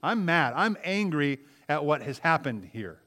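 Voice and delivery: bitter and angry. Retold or imitated. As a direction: spit out the bitterness. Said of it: "She says".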